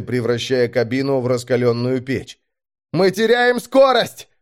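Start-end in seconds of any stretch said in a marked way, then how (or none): 2.9-4.3 high-pitched urgent cry; alarmed shout. A narrator's reading. Vector calling from the combat bay, alarmed shout. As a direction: call out the danger, pitched high. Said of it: "выкрикнул Вектор из боевого отделения".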